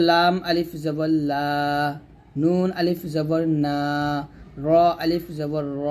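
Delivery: spelling drill, long held লা, না, র; drawn-out madd. Shown as a demonstration. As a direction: stretch each last syllable: লা, না, র. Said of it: "মাদে আমরা টান দিব".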